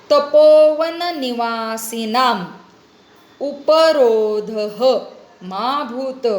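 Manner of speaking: slow, drawn-out word-by-word Sanskrit reading; sandhi-split recitation. Shown as a demonstration. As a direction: recite slowly, separating each word for students. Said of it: "संधिविग्रह कृत्वा अहम पठामि". (संधिविग्रह करून संथ पठण)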